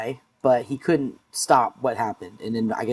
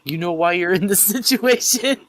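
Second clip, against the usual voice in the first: Daniel's threat; 7 semitones higher than usual. Retold or imitated. Retelling Daniel's line to captive.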